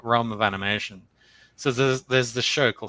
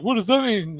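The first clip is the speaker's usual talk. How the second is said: put-on higher, louder puzzled girl voice; mock-naive question; quoting the girl; 11 semitones higher, 5 dB louder than usual. Retelling the show, the girl asks in a high puzzled voice. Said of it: "and she's like".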